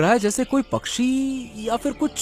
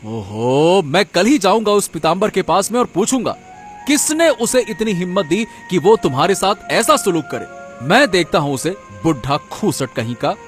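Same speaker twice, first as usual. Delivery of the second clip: worked-up, indignant vow; indignant husband; 6 dB louder than usual. Acted. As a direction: bristle on your wife's behalf. Husband angered at wife's insult. (गुस्से में तमतमाया पति)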